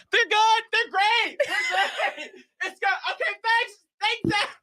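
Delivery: high, laughing, flustered thanks; awkward squeaky brush-off. Retold or imitated. Wife fleeing chatty spin instructor, high nervous laugh.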